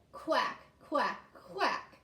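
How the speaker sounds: separate, punchy quacked words; duck quacks. Shown as a demonstration. Teacher shows how ducks talk, chanted quacks. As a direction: quack like a duck, one at a time. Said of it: "'cause that's how they talk".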